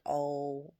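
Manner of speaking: normal talking voice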